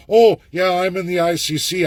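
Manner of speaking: mock a rival claiming ICC work; mock boast. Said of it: "Nobody else can tell you".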